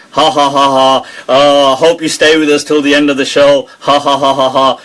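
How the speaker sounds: lightly mock the showy TV preacher laughing; mocking showman laugh. Mocking a preacher who clowns for viewers, lightly done. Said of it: "Why does he have to do all this".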